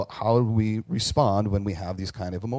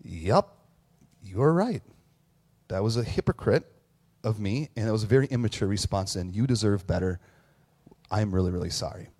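sincere apology; 2 semitones lower than usual. Retold or imitated. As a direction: own the mistake gently.

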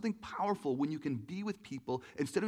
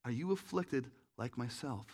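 put-on blind old man; 3 semitones lower, slower than usual. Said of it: "this old man who's blind".

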